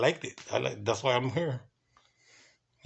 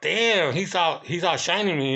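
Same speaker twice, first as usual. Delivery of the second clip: raised, louder retold amazement; impressed dismay; 5 semitones higher, 3 dB louder than usual. Guard realizing the guest is outshining him, impressed dismay. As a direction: exclaim it like you're being shown up. Retells being outdone by the guest.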